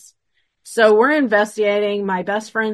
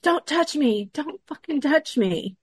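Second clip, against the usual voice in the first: retold screaming; 7 semitones higher than usual. Best friend's daughter telling them not to touch her, mock screaming. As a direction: imitate a panicked protest in a higher voice. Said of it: "she starts screaming".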